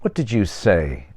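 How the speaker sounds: slow, measured demand. Acted. Older man challenging Peter's curse, slow demand. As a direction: ask it slowly, expecting an answer. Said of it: "demanded the older man".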